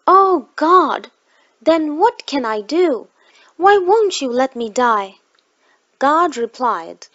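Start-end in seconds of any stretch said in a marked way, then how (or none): 0.1-5.2 raised, anguished cry to God, louder; desperate crying plea. Retold or imitated. Preacher on the seventh floor cries out to God, anguished. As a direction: plead with God in despair, voice breaking. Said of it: "I slumped down crying".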